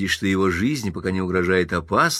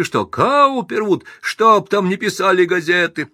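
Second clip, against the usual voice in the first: indignant outcry; 12 semitones higher, 5 dB louder than usual. Acted. Pinsky protests to crowd.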